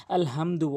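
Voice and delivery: আলহামদু with a light, unpressed h; soft small ha. Retold or imitated. Teacher imitating a common mistake, small light h in আলহামদু. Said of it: "ছোট হাইনে উচ্চারণ করে".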